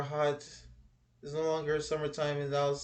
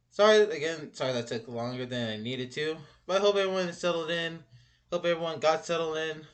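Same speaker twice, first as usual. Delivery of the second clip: out of breath, panting; breathless after rushing back; gasping between phrases; 3 semitones higher, 6 dB louder than usual. Real, not acted. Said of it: "Whew, I'm out of breath".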